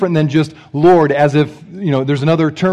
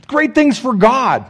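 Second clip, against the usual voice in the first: louder, pumped-up pretend hero; mock heroic eagerness; 4 semitones higher, 3 dB louder than usual. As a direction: puff up like a soldier ready for battle. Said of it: "Wouldn't it be like".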